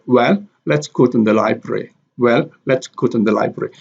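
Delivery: "Well" stressed and set apart, then "let's go". Shown as a demonstration. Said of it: "well here is stress".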